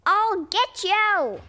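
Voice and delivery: slow, high, loud threat; captain vowing revenge; angry threat. Acted. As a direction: threaten him with fury.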